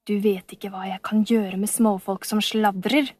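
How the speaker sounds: menacing whisper; villain gripping the girl's wrist, menacing whisper; threatening. Acted. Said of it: "sa han truende".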